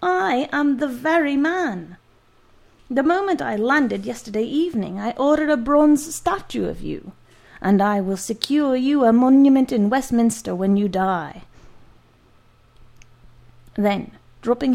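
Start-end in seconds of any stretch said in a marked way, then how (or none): 0.0-11.4 loud boasting delight; boisterous giant. Acted. Giant promising the doctor a statue, boisterous. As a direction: swell with pride.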